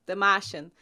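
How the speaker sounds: "Martian" with no r, Boston accent; Boston accent: "Mah-shun". Shown as a demonstration. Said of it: "from Boston".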